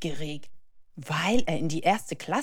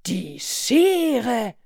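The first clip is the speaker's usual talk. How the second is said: put-on loud, raised little-boy voice; calling out; 6 semitones higher, 7 dB louder than usual. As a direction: call out the answer eagerly. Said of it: "ruft Leo". (laut gerufen)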